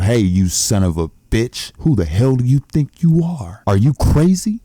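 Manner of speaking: bursts in yelling at him, building up. Acted. Man bursting into the room yells at the errand boy, furious shout. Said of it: "he yells out".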